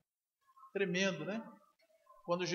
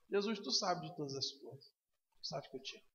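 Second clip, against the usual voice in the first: weeping answer; 3 semitones lower, 7 dB quieter than usual. Acted. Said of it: "Pedro então começa a chorar".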